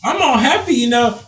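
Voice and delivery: giggly cheerful imitation; mock cheerful. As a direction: play him all cheery and clueless. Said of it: "He's like".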